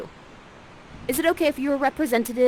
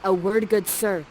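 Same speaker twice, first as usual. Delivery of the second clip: firm and louder, a stern mother warning a suitor; strong, commanding; 4 dB louder than usual. Acted. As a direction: bear down on him with each word. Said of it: "says to him in a very strong way".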